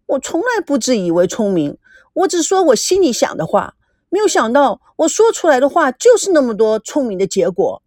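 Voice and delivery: lightly voiced pouting girl. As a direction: say it with a pout, sulky and defensive. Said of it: "阿娇嘟着嘴说".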